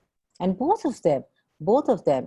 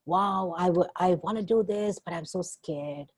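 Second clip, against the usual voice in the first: eager start that sinks into a small, scared ending; torn, scared; 3 semitones higher than usual. Retold or imitated. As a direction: want it, then shrink back in fear. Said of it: "So many of us look at, look at an energy of".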